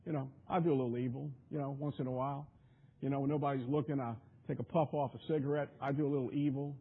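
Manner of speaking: mock trivial confession.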